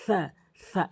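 সা with the tongue tip touching the front teeth; সা repeated for copying; Arabic tha. Shown as a demonstration. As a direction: model সা as a th sound. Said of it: "এভাবে normally উচ্চারণ করবেন".

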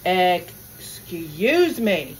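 "Excuse me" stretched very slowly, each word long; slow, pointed, drawn-out "Excuse me". Retold or imitated. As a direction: pointedly drag out "Excuse me" to a blocking shopper. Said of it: "I'm like".

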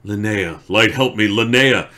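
building from a grieving plea to a loud, high cry; a man shouting for his dead wife; anguished cry. Acted. Grief-struck man calls his dead wife.

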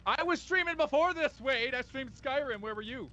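loud, high European barmaid voice; European barmaid accent. Acted. Friend defends having streamed first, European barmaid accent. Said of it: "why did you turn into, like, one of those, uh, European barmaids".

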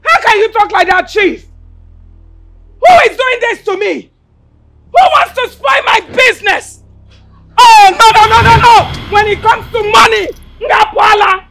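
loud, desperate lament over lost money; panicked wail. Acted. Bar owner wailing as the chief leaves with the money. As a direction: cry out as the money walks away.

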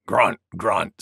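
low, short boar grunts; grunting wild boar. Acted. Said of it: "said Wild Boar".

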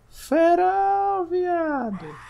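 sudden high shriek of fright; startled shriek. Real, not acted. Gamer jolted by a jump scare, high startled shriek.

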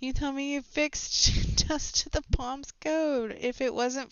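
high, slow put-on voice with a laugh; slow mocking character. Reading a developer's accusation, slow mocking voice. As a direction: drag out the words mockingly. Voicing game character dialogue.

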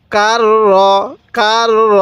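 "কার র" with a long held r; teacher's demonstration of a doubled r in "কার র". Shown as a demonstration. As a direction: roll from "কার" straight into "র". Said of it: "ওই হরফটি আপনারা দুইবার পড়বেন".

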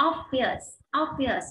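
"obvious" stressed on OB; teacher's model "obvious", OB stressed; first-syllable stress. Shown as a demonstration. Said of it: "nhấn number một".

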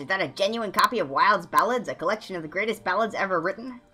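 loud delight, climbing in pitch to a grand finish; thrilled gushing. Acted. Bard thanks friend for ballad book, thrilled gushing. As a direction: gush over a treasured gift.

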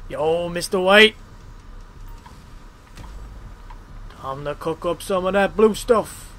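half-hearted TV drug-cook impression; badly faked slangy sidekick voice; poor character impression. Gamer quoting a drug-cook show, poor impression. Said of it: "it's not a very good impression".

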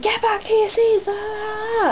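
high-pitched mock guard ordering; security guard. Imitating the guard sending fans back to their seats. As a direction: squeak it like a fussy steward. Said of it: "he was just like".

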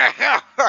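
short strained cackle; throaty put-on witch laugh; high cackle. Fortune teller before her vision, high cackle.

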